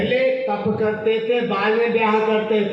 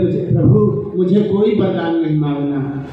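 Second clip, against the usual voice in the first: measured, deliberate wifely plea. Acted. Acts out wife answering her husband.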